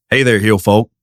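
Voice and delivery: Southern twang. Shown as a demonstration. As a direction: model a Southern twang greeting. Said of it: "you can just try this".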